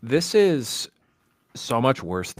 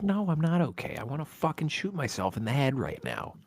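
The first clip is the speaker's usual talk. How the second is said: mock despair; 7 semitones higher, 3 dB quieter than usual.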